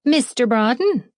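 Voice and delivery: eager, bright question; a bit too keen; too excited. Acted. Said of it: "sounding a little too excited for my taste".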